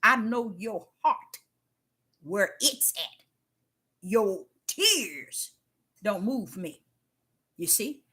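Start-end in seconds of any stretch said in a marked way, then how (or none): 0.0-6.8 God's slow firm words. Retold or imitated. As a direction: say it calmly and unbending. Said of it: "what he was saying is".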